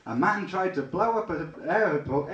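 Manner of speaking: "a man tried to blow up an airport" tripped over and slurred; fumbled line. Real, not acted. Comic telling the audience about the airport, fumbling the line. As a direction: stumble through "airport". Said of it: "if only I could talk properly".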